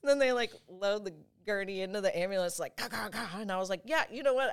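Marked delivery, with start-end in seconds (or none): 2.8-3.4 high "gah, gah, gah" of pain; imitated pained cries. Imitates pain while loaded into ambulance. 3.9-4.5 high, louder change of mind; sudden eager surrender. Retold or imitated. Retells suddenly begging for the drug.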